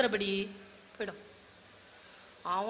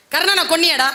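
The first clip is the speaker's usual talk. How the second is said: a much louder scolding demand; angry rebuke; 2 semitones higher, 6 dB louder than usual. Acted. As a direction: bark the question at him. Elder brother scolding Arjuna. (Dharmar அர்ஜுனனை உரக்கத் திட்டும் கேள்வி)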